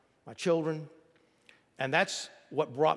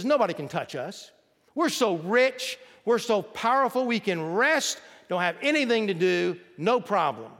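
mock boast; 4 semitones higher, 5 dB louder than usual. Mocking boastful rich Babylonians.

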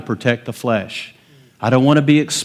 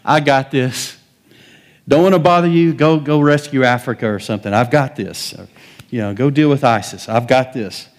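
mock bravado. Mock self-reliance to God.

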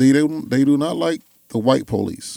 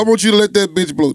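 mock loud shout; 3 semitones higher, 3 dB louder than usual. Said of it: "voice so loud".

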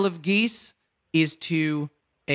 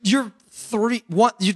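excited; 7 semitones higher, slower than usual. Real, not acted. Celebrating correct quiz answer.

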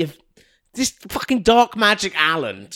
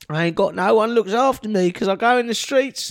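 put-on cheeky scrappy street kid; 2 semitones higher than usual. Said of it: "the little urchin boy".

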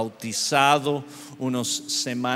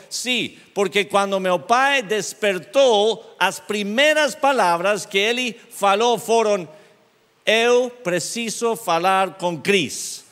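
excited retelling; 7 semitones higher, 5 dB louder than usual. Retold or imitated. Friend retells father's first words.

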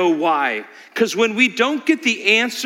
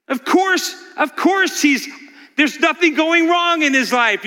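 high sneering Satan, lightly voiced; mocking Satan; 8 semitones higher than usual. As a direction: tease God in a high mock-innocent voice. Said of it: "is what Satan says".

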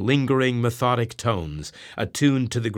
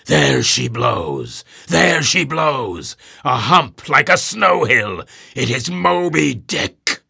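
high, loud hail from the masthead; gull-like cry; 4 semitones higher, 6 dB louder, slower than usual. A narrator's reading. Lookout sighting the whale, crying out high and loud. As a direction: cry it out across the sea. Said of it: "he raised a gull-like cry".

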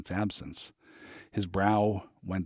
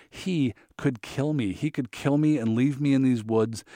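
rising panic, higher and louder; panicked; 5 semitones higher, 4 dB louder than usual. A narrator's reading. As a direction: gasp it out in fear.

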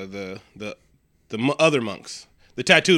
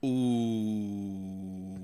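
long, soft, falling ooh; drawn-out ooh; 2 semitones lower, 7 dB quieter than usual. Real, not acted. Co-host reacting to the joke, long soft ooh.

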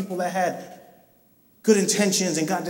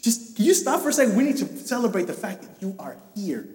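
eager father; faster than usual. Retold or imitated. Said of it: "it's just like saying".

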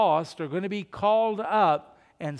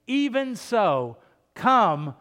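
joyful confidence; 5 dB louder, slower than usual. Real, not acted. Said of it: "we can say with confidence and with joy".

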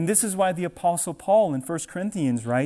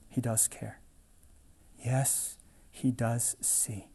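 whispered, softer; hushed reassurance; 4 semitones lower, 9 dB quieter, slower than usual. Real, not acted. Preacher reassures his doubting congregation, whispered and soft. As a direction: whisper it like a secret comfort.

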